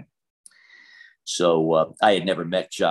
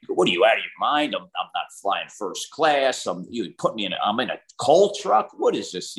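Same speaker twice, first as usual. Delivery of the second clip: spoiled pro athlete scoffing, pitch climbing much higher by the end; mock outraged NBA star; 3 semitones higher than usual. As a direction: play a pampered star balking at the coal truck. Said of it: "could you imagine an N B A guy".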